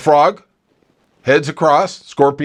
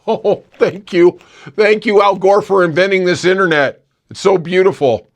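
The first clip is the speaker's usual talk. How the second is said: sarcastic gratitude; 4 semitones higher than usual. Acted. A host mockingly thanking Al Gore, sarcastic and laughing. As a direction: gush with heavy irony.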